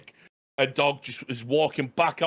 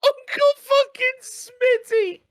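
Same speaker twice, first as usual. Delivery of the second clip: laughing disbelief; 5 dB louder, slower than usual. Real, not acted.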